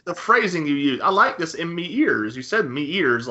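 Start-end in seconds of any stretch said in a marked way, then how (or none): 1.0-2.3 put-on light British accent on "me ears". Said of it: "like a British person". 2.7-3.3 put-on British accent. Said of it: "like a British person".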